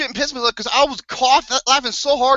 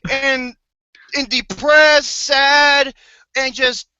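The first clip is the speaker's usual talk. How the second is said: mock sobbing lament; 4 semitones higher, 3 dB louder, slower than usual. Mock lonely lament, crying shout.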